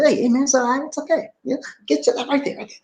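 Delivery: high-pitched, chummy reassurance; friendly reassurance. Retold or imitated. Customer with a hand on clerk's shoulder, friendly reassuring. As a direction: pitch it up and let them off lightly. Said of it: "try to reassure them".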